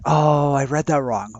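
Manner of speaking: stretched-out "oh" of a student catching a mistake; student's dawning realisation. Retold or imitated. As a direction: lightly imitate a student owning up, slow and loud. Voicing students realising their mistake.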